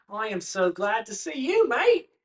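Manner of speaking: high, loud Irish farmer greeting; lilting Irish brogue, loud and bright with joy; Irish accent. Acted. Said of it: "Dinky is Irish ... speaking in an Irish accent".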